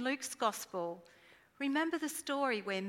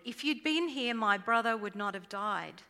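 mild demand; 4 dB louder than usual. Retold or imitated. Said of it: "Martha demanded".

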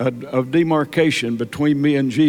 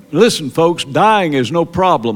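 fervent preaching; 2 semitones higher than usual. Real, not acted. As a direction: hammer the point to the pews. Preaching at full force.

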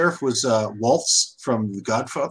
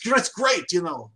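mock New York sheriff; 5 semitones higher than usual. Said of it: "I'm going to going".

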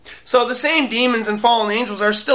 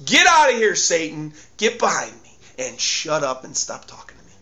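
firm telling off; 4 semitones lower than usual. Shown as a demonstration. Preacher models telling Satan off, firmly. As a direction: command Satan to leave. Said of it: "Tell him off".

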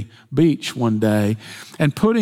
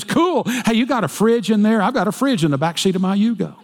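higher, eager little-guy brag; chirpy braggart, pitched up; cocky Yugo driver; 4 semitones higher than usual. Acted. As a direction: show off your tiny car to the rich guy. Boastful Yugo driver in joke.

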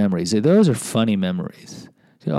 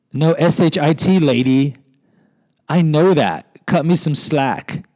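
indignant retort; 6 semitones higher, 3 dB louder than usual. Retold or imitated. Indignant inner retort to clerk.

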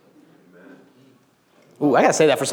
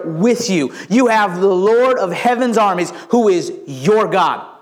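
emphatic preaching; 4 semitones higher, slower than usual. Real, not acted. Preaches encouragement to the congregation.

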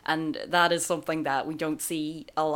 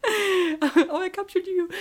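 mimicking character; 14 semitones higher, 4 dB louder, slower than usual. Mimicking character taking selfies.

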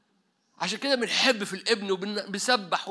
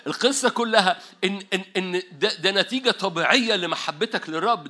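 laughing. Real, not acted. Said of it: "still laughing".

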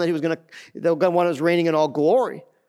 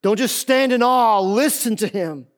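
raised opening, slowing into a firm command; emphatic command; 5 semitones higher than usual. Retold or imitated. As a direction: exhort as the voice from heaven. Preacher voices God's command.

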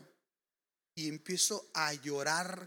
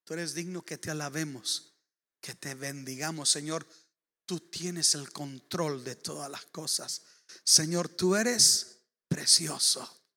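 hushed prayer; 3 semitones lower, slower than usual. Retold or imitated. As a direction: pray it gently, adoringly. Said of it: "empiezo a decirle".

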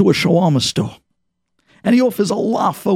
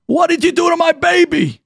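horrified shout; 9 semitones higher than usual. Acted. Mother shouting at the brother over her baby, horrified. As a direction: yell it at the babysitter.

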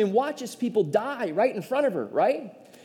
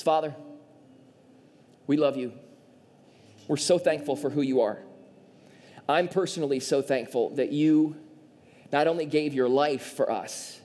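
lower, earnest prayer voice; closing prayer; 3 semitones lower than usual. Acted. Pastor praying for the congregation, lower and earnest. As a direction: pray over the room, unhurried.

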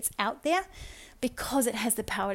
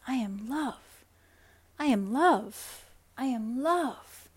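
slow "I am love", each one felt and savoured; mean every word, letting it sink in; heartfelt affirmation; slower than usual. Shown as a demonstration. Coach showing the right way to affirm, slow and heartfelt. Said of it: "and really feeling into what that feels like".

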